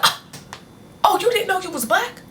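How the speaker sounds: high, mocking laughing voice; a mother cracking up while teasing her daughter, high and mocking; mom laughing mockingly. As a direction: tease her through a laugh. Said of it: "my mom just started cracking up laughing".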